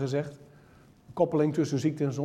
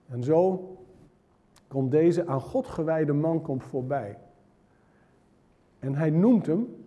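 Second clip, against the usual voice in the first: ordinary talk, nothing marked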